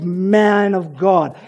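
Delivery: slow, drawn-out man of God laced with scorn; sarcastic man of God. Shown as a demonstration. Preacher quoting the widow's bitter words, slow and sarcastic. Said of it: "hear the sarcasm dripping from her mouth".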